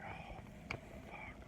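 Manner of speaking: a breathless unvoiced oh fuck; whispered curse. Comedian hears the mechanic won't test drive, whispering. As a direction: whisper it under your breath, defeated.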